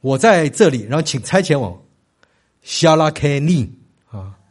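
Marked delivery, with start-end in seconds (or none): 2.6-3.7 "Shalakeni" with weight near the end; Hebrew end stress. Shown as a demonstration. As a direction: teach "Shalakeni", stressing the closing syllables. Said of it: "重音大概都是在最后一个音节或倒数第二个音节".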